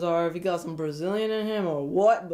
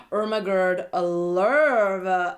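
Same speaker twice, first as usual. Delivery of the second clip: gushing; 4 dB louder, much slower than usual. Pretend. Gushing over a contestant.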